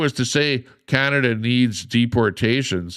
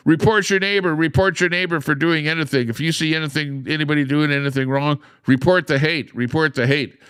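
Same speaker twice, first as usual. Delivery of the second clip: high, loud mock public announcement; 7 semitones higher, 3 dB louder than usual. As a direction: parody a preachy police campaign. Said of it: "And now they're going like".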